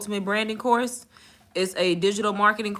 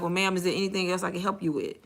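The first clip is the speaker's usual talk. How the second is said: deadpan customer service; 5 dB quieter, faster than usual. Retold or imitated. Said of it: "keep a straight face and be like".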